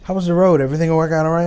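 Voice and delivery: put-on a caring little girl checking on dad; little daughter voice. Daughter quizzes tired dad.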